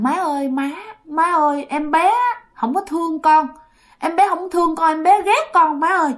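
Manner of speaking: mild tearful daughter begging her mother; tearful pleading. Acted. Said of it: "vừa ôm vừa khóc".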